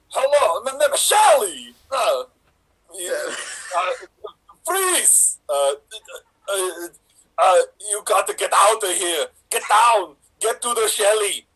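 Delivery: a loose Austrian accent played as Shelley Duvall; an Austrian action star auditioning with a light Austrian accent; Arnold Schwarzenegger accent. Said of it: "you are going to be Arnold Schwarzenegger auditioning to play Shelley Duvall".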